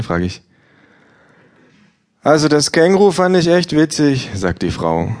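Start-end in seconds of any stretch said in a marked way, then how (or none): 2.2-4.3 hohes, lautes gleichgültiges Ja; Buchhändlerin. Acted. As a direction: ein schrilles Ja ohne Interesse. Bookseller voiced high. (Verkäuferin antwortet hoch und laut gleichgültig)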